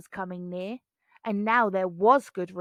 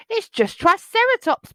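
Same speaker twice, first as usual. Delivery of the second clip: laughing; 10 semitones higher, 8 dB louder than usual. A narrator's reading. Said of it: "Bonehead laughed".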